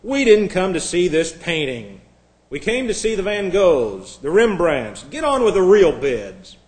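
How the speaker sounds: a touch of angry shouting. Acted. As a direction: act out an irritated bidder calling out. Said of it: "Another voice shouted angrily".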